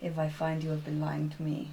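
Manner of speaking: low menacing threat, fading to unvoiced; quiet snarled threat from a beast; barbarian threat. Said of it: "I'll be like".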